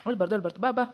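tender grandfatherly murmur; gentle hushing. Acted. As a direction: quietly comfort a crying grandchild. Grandfather hushes the crying child.

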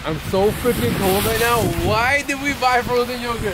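high-pitched whine from the cold; freezing complaint. Real, not acted. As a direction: wail it in comic regret. Complaining of cold while holding yogurt.

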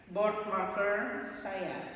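slow model phrase. Shown as a demonstration. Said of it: "Bagaimana mengatakan".

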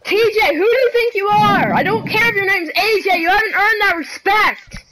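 worked-up telling-off; indignant scolding. Real, not acted. Scolding a teammate over his name, indignant. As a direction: rattle off a reprimand, indignant.

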